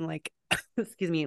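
coughing through the words; words squeezed out mid-choke; choking on popcorn. Real, not acted. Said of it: "now I'm choking on popcorn".

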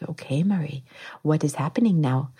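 hushed, lightly imitated Puerto Rican accent. Doula from Puerto Rico to labouring mother, imitated Puerto Rican accent. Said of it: "she has this fabulous accent".

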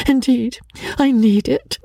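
high-pitched, pitiful plea; tearful tone. A narrator's reading. Rebecca needing consolation from Miss Crawley, tearful. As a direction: beg for sympathy on the edge of tears. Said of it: "in the same tearful tone".

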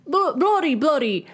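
hammed-up British cursing; mock British accent. Podcaster riffing on Nick's slang, mock British accent. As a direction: improvise threats in fake British slang. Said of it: "I'm trying to riff here".

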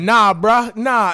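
retold emphatic refusal; imitated firm refusal. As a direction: act out brushing someone off loudly. Acts out woman refusing a hug.

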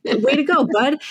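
retold sarcastic jab. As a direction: give snide, snippy praise. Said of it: "I get sassy and snippy and sarcastic".

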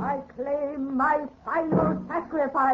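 slow, cold, commanding decree; vengeful goddess. Acted. Goddess claiming her husband as sacrifice, slow and cold. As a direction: pronounce doom on your victim, slowly.

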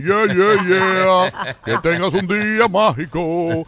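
A rapper singing as a Disney character; high, loud mock Disney croon, drawn out; theme park princess. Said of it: "un personaje de Disney cantando con la voz de un rapero".

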